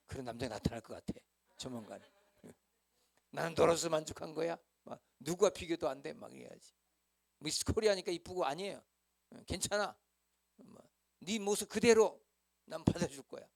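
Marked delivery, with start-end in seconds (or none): 3.3-6.1 louder, higher lover's vow; earnest drama lover's line; romantic suitor. Retold or imitated. Imagined lover's words. 9.3-13.5 swelling romantic reassurance; tender suitor. Retold or imitated. Imagined lover accepting her.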